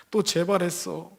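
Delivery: slow, changed pained voice; tearful plea. Retold or imitated. Deaconess to preacher at the door: slow, pained lament. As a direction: drag the words out in despair.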